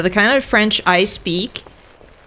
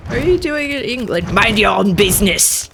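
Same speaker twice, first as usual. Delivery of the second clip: Monty Python Frenchman. Retold or imitated. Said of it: "sound like one of the Monty Python Frenchmen".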